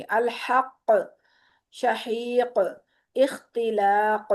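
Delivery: अल हक़, शहीक, इख्तिलाक very slow, each final qaf echoed; slow drill. Shown as a demonstration. Teacher correcting herself and repeating the drill. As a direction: drill each word slowly with a bounce. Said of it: "sorry".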